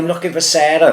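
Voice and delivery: mimicking driver. Neighbour mimicking the driver's excuse at the door, high and pleading. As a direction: squeak it out like a caught-out driver.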